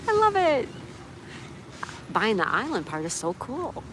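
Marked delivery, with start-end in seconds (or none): 0.1-0.7 high, loud, drawn-out delight; delighted gushing. Real, not acted. Streamer thrilled by a viewer's island idea, gushing. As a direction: gush with real pleasure.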